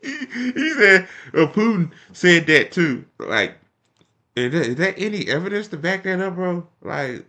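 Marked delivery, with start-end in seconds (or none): 0.0-3.0 high, laughing, slowed mock retelling; can't get it out for laughing; laughing disbelief. Real, not acted. Vlogger laughing at Bernie's claim about Putin, laughing disbelief.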